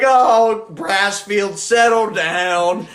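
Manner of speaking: a teacher who can't stop laughing; teacher scolding a student while laughing. Retold or imitated. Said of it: "he's like".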